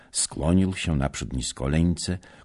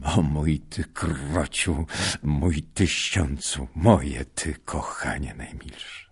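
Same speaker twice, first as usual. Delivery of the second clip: tender endearment; slower than usual. Acted. Husband caressing his wife.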